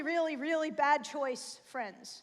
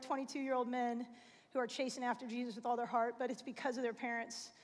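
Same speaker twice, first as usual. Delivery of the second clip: close to tears; 2 semitones lower than usual. Real, not acted. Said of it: "I literally feel like I'm gonna cry right now".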